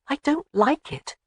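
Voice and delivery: arguing. A narrator's reading. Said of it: "Jamie argued".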